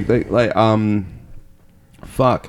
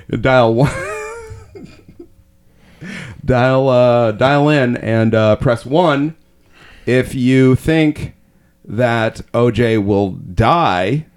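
slow, drawn-out game-show voting instructions; mock announcer, deliberate and slow; mock phone-in vote host; much slower than usual. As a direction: stretch out the key words like a TV vote host.

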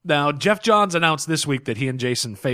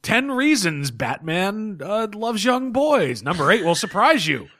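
slow, hyped clickbait teaser; clickbait video narrator; 7 semitones higher, slower than usual. Pretend. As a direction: sell the list like cheap clickbait. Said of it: "going for the lowest common denominator".

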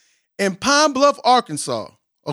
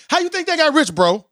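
higher pitch, pressing the question "How you think they got rich?"; emphatic rhetorical question; 7 semitones higher than usual. Shown as a demonstration. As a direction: punch it like the lyric. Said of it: "dependency theory".

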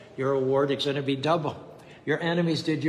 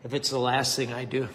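quiet threat through clenched teeth; 3 semitones lower, 5 dB quieter than usual. Acted. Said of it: "muttered through clenched teeth".

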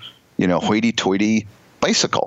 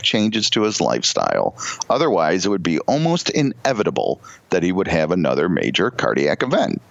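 letter writer's voice. Retold or imitated. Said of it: "this is in her voice".

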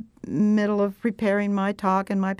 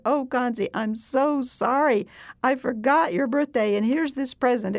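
tender apology. Retold or imitated. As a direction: say it gently like making up with a friend. Apologizing to Kanzi.

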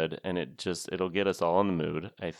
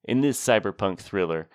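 lightly played movie trailer announcer. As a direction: read it like a half-laughing trailer voice. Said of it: "I was trying to do an announcer voice, but it was more of a laughing announcer voice".

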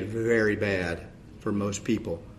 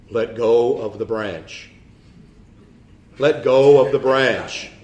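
a slow, booming divine command; lightly voiced God calmly ordering; voice from heaven; 5 dB louder, slower than usual. God answers the man on the cliff, slow commanding voice. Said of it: "a voice from heaven says".

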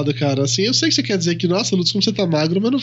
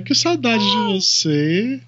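slow, breathy sensual voice; much slower than usual. Acted. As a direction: purr it slowly and seductively. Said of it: "que voz sensual pra falar isso".

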